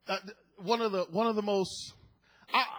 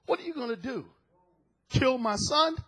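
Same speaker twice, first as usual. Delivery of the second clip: taunting; 3 semitones higher than usual. Acted. Man daring the Lord, taunting. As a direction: toss it out as a dare. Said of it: "he began to taunt the Lord".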